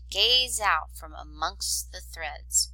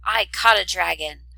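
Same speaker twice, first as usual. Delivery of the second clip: gleeful, louder boast; playful exclaim; 6 dB louder than usual. Acted. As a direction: announce your catch with delight. Mulan playing with brother.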